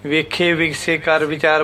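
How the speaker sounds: ਵੇਖੇ and ਵਿਗਸੇ ending in a plain e sound; the common mistake, short e endings; wrong pronunciation. Shown as a demonstration. Teacher showing the mistaken reading with e endings. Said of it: "ਇਹ ਗਲਤ ਹੈ".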